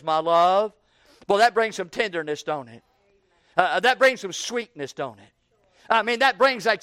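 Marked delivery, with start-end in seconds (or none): 0.0-0.7 lightly voiced tender my love; soft call. Shepherd calling the Shulamite softly. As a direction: call her gently. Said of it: "he calls her softly".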